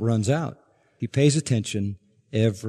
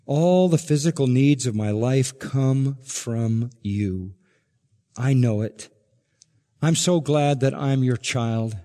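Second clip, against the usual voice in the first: slow, hushed prayer to God; slow murmured prayer of thanks; humble prayer; slower than usual. Pretend. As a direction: pray it gently, word by word, as a grateful child. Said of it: "we're saying".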